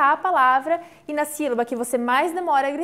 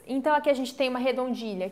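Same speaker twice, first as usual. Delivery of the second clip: normal talking voice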